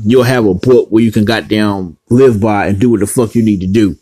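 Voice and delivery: winded, short of breath; running out of air while ranting. Real, not acted. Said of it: "Now I'm running out of breath".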